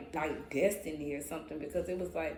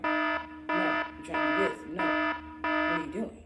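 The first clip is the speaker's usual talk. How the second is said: loud sharp self-reprimand; self scolding; 9 semitones higher, 4 dB louder, slower than usual. Retold or imitated. Fighting her own mind, loud self-scolding. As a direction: scold yourself hard.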